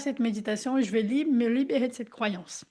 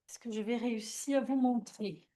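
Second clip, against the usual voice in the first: a softer, hushed question to test the mic; speaking softly; 8 dB quieter than usual. Shown as a demonstration. Leader testing if the group hears her, softly. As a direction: drop your voice and ask gently. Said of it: "est-ce que vous m'entendez si je parle comme ça".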